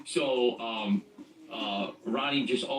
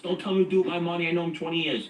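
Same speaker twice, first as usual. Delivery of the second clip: quick, raised voice, partway to a yell; retold yelling; 5 semitones higher, faster than usual. Ronnie yelling at the guys over lending his money, quick raised voice. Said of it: "Ronnie starts yelling at us".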